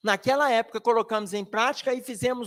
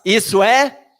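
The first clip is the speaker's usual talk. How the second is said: put-on startled teen; 10 dB louder, slower than usual. Teen caught off guard by father.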